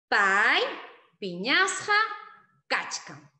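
Han llakisqa kachkanki said word by word with pauses, loud; teacher drilling the phrase; slow, spaced model sentence. Shown as a demonstration. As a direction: pause after each word for the class. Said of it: "no lo olvides".

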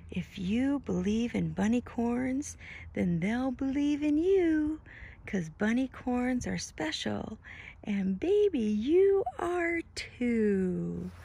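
slow tender lullaby read; tender storybook ending. Acted. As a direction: say you are too slowly and tenderly. Reads final page tenderly.

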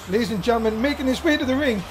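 slow drawn-out ring intro; ring announcer. Acted. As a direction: stretch the name out like an arena announcer. Introduces the champion.

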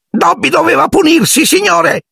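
extremely high shrieking elf; sobbing house-elf outcry. A narrator's reading. House-elf overwhelmed by a wizard's courtesy, shrieking. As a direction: burst out in tearful awe. Dobby explains himself.

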